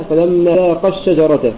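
slow, stressing the قا of ذاقا before الشجرة; dual stress. Shown as a demonstration. Teacher marking the dual, stress on the قا of ذاقا. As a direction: lean on the last syllable of ذاقا. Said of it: "ذاقا بالتثنية إذا وصلناها".

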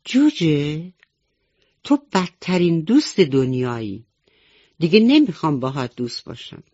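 a touch of temper, rushing the last line; angry. Acted. The rabbit scolds Chick, mildly angry. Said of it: "خرگوشک با عصبانیت گفت".

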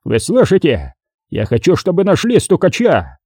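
angry demand, climbing in pitch; angry growl. A narrator's reading. Boss demands the informer be found, growling. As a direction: press the order home angrily. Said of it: "прорычал босс".

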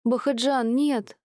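high, frantic cry to stop him; panicked scream. A narrator's reading. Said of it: "завопила Мира". (жена в ужасе вопит мужу)

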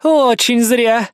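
slow, smirking villainess. A narrator's reading. Amanda to Savage while pinned, smirking. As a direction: smirk the words out slowly. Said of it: "усмехнулась Аманда".

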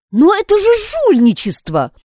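высокий громкий возглас потрясения; выкрикни с возмущением, высоко и громко; shocked outcry. A narrator's reading. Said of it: "вскричала Пат". (Пат в ужасе от жульничества сестры, громкий высокий выкрик)

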